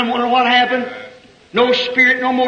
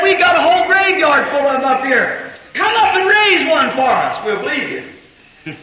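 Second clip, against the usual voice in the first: mocking priest; 3 semitones higher than usual. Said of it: "It was a priest".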